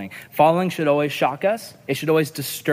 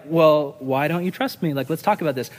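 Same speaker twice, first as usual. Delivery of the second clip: reasonable reply. Retold or imitated. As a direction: calmly invite a talk. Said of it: "what I should have said".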